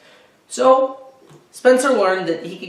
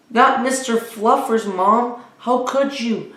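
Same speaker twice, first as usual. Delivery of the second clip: put-on dismayed boy; 7 semitones higher than usual. Boy pleading over his bunny.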